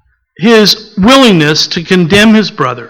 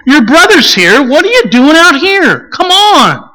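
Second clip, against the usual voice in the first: brisk, higher, hurried summons; impatient father; 6 semitones higher than usual. Pretend. Father impatient with the older son, calling him in. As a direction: hustle the sulking son inside.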